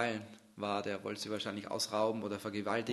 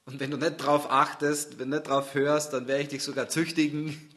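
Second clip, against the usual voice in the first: stern warning; 3 semitones higher, 7 dB louder than usual. Acted. Jesus's warning, louder.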